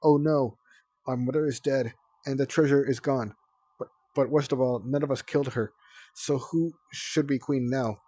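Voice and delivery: play-acted mourning cry; mock anguish. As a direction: wail over the dead mother theatrically. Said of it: "let out a cry of anguish".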